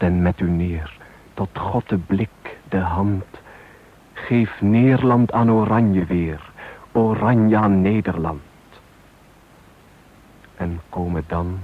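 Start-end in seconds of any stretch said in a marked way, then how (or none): none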